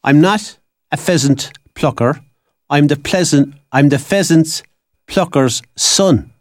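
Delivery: slow, careful tongue-twister recital; best recitation accent. Shown as a demonstration. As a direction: pick through the rhyme slowly, pausing between phrases. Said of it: "in my best accent".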